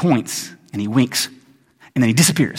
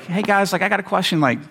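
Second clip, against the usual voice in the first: tentative imitation, slightly higher and softer; sheepish asker; 3 semitones higher, 3 dB quieter than usual. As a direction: ease into an awkward question. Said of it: "the first person that asked it, though, probably was like".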